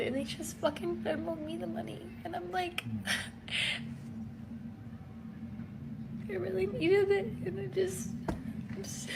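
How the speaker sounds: choked-up laugh-crying, words breaking off; overwhelmed relief, laughing through tears; tearful laughing. Real, not acted. Overwhelmed by unexpected rent money.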